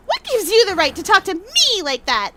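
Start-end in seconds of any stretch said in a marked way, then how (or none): 0.1-1.3 sudden loud, furious outburst; angry shout. Acted. Witness shouting down the courtroom in fury. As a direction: yell it at the whole courtroom.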